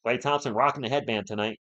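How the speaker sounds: talking through a yawn. Real, not acted. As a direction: yawn while you speak. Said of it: "don't know why I'm yawning".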